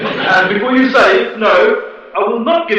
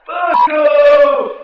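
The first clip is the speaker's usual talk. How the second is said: angry shout; 3 semitones higher than usual. Acted. Guest shouts down the audience member. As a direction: yell it at the heckler.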